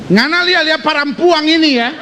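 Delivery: jab at him over the other woman; jealous wife. Acted. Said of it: "Dia mulai bilang".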